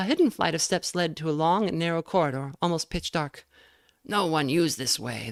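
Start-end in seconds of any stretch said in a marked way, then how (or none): 4.0-5.3 rough, harsh, slow beast-man voice. Reading a story aloud, voicing the beast man: harsh voice. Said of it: "the beast man said in his harsh voice".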